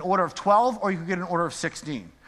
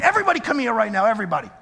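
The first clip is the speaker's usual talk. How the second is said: mad summons; 3 semitones higher, much faster than usual. Retold or imitated. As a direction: hurry them all over. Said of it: "I was mad".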